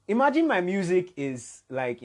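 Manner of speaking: put-on slow, lifted African accent; a singer's African accent. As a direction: voice the quote in a West African accent. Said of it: "in his very African voice".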